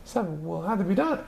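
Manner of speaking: teacher resolving to act; determined old voice. Acted. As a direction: mutter it quickly in the high voice. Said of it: "and she went to her closet".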